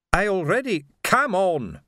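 urgent. Acted. Urgent interruption.

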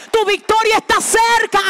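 loud rising proclamation; shouted promise. Shown as a demonstration. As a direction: proclaim cerca loudly. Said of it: "repeats louder".

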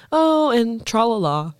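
slow, laughing sing-song; sing-song tra-la-la. Retold or imitated. Brother's little-kid lilt, laughing through it. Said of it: "my brother would go".

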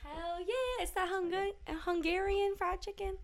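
high-pitched, softly silly delivery; odd silly voice. Pretend. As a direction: say it oddly, pitched well up. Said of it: "I don't know why I said it like that".

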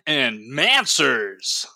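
slow, low announcer drawl; radio voice. Acted. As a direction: stretch the name out like a host. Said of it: "my radio voice".

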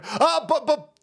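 mock whining protester. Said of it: "they're just gonna scream".

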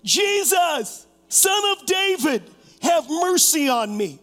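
acted plea, partly shouted; mild shouting. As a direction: call out for mercy over a crowd, lightly acted. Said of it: "he began to shout".

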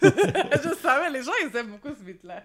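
talking through laughter; laughing. Real, not acted. Artist to interviewer about her popular track, laughing. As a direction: let real laughter break into the words.

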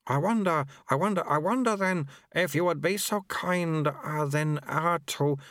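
high, eager beaming plea; a lightly voiced manic official. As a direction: gush with relief. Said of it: "He beamed manically".

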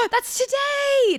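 high, slow astonished exclamation; gasp, then marvel at it; gasped surprise. Real, not acted. Gasp at date.

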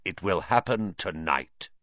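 lightly voiced harsh prophecy; hint of a harsh trance voice. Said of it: "a loud, harsh voice".

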